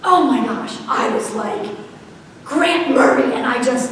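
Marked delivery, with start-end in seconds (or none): 2.4-3.3 loud scolding of the full name; mother scolding her son in the kitchen, angry. Retold or imitated. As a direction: call him out by his full name, angry. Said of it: "flipped out in the kitchen".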